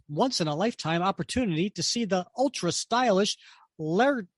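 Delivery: lightly hammed-up showman's patter; a touch of grandiose villain introducing himself; stage magician's announcement. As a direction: announce it with mild theatrical flourish. Reading villain's stage announcement aloud.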